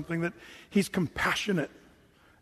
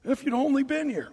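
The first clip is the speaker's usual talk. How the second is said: higher-pitched mild reproach; lightly acted disappointed blame; mock bummed-out; 5 semitones higher than usual. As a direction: put on a bummed-out complaint. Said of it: "They're bummed out at".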